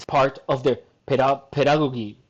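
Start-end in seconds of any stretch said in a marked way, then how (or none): 1.5-2.2 "pedagogy" with both g's hard; mispronounced pedagogy. Real, not acted. Reader stumbling on an unknown word, "pedagogy" with hard g's. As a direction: say "pedagogy" ending in hard "GAW-ghee". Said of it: "How do you even pronounce that?".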